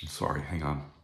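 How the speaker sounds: very soft, low apology while fighting emotion; choked up. Real, not acted. Speaker pausing the talk to collect themselves, choked up. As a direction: quietly ask for a moment to recover. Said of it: "I have a hard time with this".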